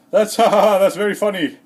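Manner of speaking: loud, high put-on laughter; mock laughing. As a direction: laugh along at a friend's lame joke. Acted polite laugh at lame joke.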